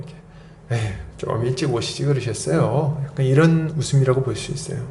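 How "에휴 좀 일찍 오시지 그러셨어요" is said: low, softened sigh of mild bitterness; bitter resignation. Acted. Sarah answering the promise that came too late, bitter resignation. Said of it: "참 씁쓸한 웃음이에요".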